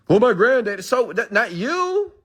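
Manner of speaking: high, mocking put-on voice; mocking imagined commenter. Mimicking a follower who blames his granddad, high mock voice. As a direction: sneer it out in a high caricature voice.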